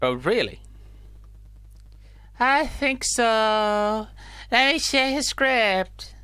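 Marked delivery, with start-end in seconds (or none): 2.4-6.1 slow NPC voice. Acted. NPC slowly checks.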